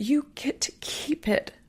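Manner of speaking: whispered, breathy, close to tears. Speaking about grieving and what you get to keep, the speaker is tearing up. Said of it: "oh, I'm tearing up here".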